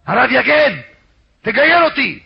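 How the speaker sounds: high, loud tearful plea; tearful pleading. Retold or imitated. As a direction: cry out, begging in a retold wail. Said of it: "התחיל לבכות".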